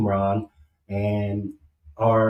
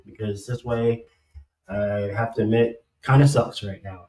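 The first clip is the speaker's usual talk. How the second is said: speaking through a numb mouth; cotton in mouth. Real, not acted. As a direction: talk like cotton is in your mouth. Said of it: "I sound like I got cotton in my mouth".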